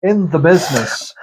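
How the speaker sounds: put-on loose, unsure Scottish accent; attempted Scottish accent. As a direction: imitate a Scottish comedian, badly. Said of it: "Can't do Scottish".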